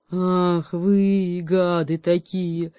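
slow, loud growling bear. A narrator's reading. Bear growling at the animals, slow angry growl. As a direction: growl it out in anger. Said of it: "рычал медведь".

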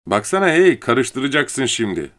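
high, sharp call of protest; alarmed warning. A narrator's reading. Woman warns man stroking her hair. (telaşla uyararak)

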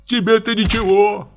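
put-on high, fretting lament of a timid old man; high anxious old-man complaint; frightened Pochechuev. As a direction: wring your hands over the beating.

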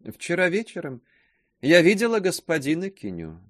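curt gossip's voice. A narrator's reading. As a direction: snap it out short and pointed. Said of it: "кратчайшим голосом сказала".

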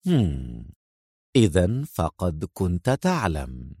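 low, slow, quiet smirk; amused triumph; smirking sarcasm. A narrator's reading. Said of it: "بنفس الابتسامة الساخرة".

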